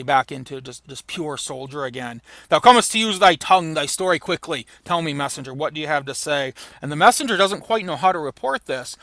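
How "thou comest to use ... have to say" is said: stern king's command. Acted. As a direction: demand it like a soldier king. Reading Macbeth to messenger.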